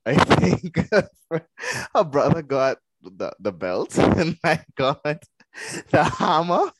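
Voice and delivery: amused words interrupted by laughs; real laughter in the telling; laughing while telling. Real, not acted. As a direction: struggle to finish through giggles. Laughing while recalling makeshift weapons.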